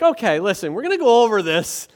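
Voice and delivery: Jesus spelling it out to the crowd; patient exasperation. Retold or imitated. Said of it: "And Jesus is like".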